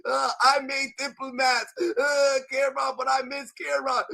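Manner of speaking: mock crying. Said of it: "He's crying on interviews, saying".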